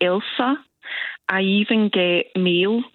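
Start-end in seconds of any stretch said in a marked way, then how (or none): 0.0-0.6 Elsa with a short "el"; mispronounced name. Shown as a demonstration. Caller showing host another wrong version of her name, Elsa as ELL-sa. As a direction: say Elsa as "ELL-sa", two syllables. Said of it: "How often is your name mispronounced".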